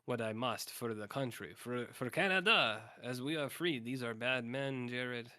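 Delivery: mock heroic Johnny. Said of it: "and Johnny says".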